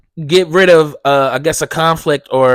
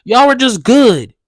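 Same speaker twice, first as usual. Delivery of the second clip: voicing the dogs' owner; 6 semitones higher than usual. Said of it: "And it's just like".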